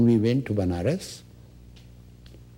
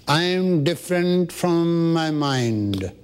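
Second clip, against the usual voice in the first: slow affirmation; 7 semitones higher, slower than usual. Shown as a demonstration. Witnessing statement for the listener.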